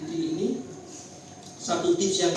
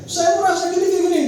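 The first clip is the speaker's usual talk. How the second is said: loud, high replay of an argument; agitated complaint; 12 semitones higher, 8 dB louder, faster than usual. Retold or imitated. Husband complaining to his wife, loud and agitated. Replaying the failed tip in conflict.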